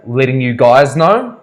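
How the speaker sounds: "Letting you guys know?" drawn out slowly and rising, offended; mock offended echo of "Letting you guys know?", slow and rising; mock indignant echo. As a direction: throw the phrase "Letting you guys know?" back at him, incredulous. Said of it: "and she was like".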